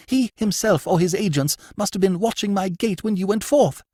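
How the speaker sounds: vehement denial. Acted. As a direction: insist with heat. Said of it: "cried the lady vehemently".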